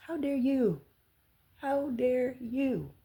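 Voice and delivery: mother outraged at stranger, real indignant outburst. Real, not acted. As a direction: hurl it back with disbelief.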